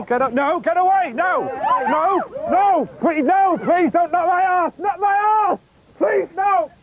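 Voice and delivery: mock pleading. Begging not to be kicked.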